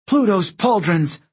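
high, slow exclamation; exasperated cursing. A narrator's reading. Praetor cursing as buildings are blasted, high and exasperated. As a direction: swear in drawn-out frustration. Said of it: "Reyna cursed".

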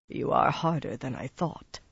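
soft, subdued muttering. A narrator's reading. Taim watches Rand lay the boy down, muttering. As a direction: mutter it under your breath. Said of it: "Taim muttered".

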